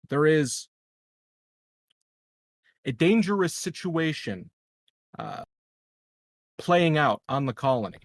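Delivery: measured, grave public address over loudspeakers; PA announcement. Pretend. El Presidente addresses the colony over the PA, in a solemn speech. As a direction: address the whole colony like a leader calming a crowd. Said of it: "narrate what's, uh, coming over the speakers".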